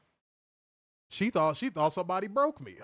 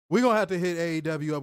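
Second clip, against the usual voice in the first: excited; 7 dB louder, faster than usual. Real, not acted. Excited joking.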